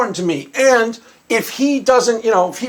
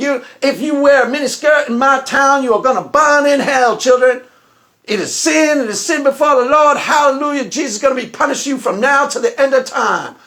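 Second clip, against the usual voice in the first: put-on fiery Texas preacher drawl; 3 semitones higher than usual. Imagining a man turned into a fire-breathing Texas evangelist, the speaker voices him: Texas evangelist accent. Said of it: "he's even got a Texas accent".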